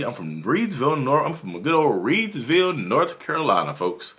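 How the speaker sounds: a light North Carolina southern drawl on Reidsville. Shown as a demonstration. Answering where he's from, a light North Carolina southern drawl. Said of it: "that's where my southern drawl comes from".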